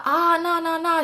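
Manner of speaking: high, panicky no no no; a man caught out, backing off fast; panicked denial. Retold or imitated. Spam panicking, retold.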